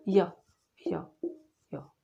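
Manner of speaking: isolated syllables with long gaps; imitated stammer. Girl trying to answer the teacher, halting imitated stammer. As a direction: act out struggling to get one word out. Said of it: "कैसा?".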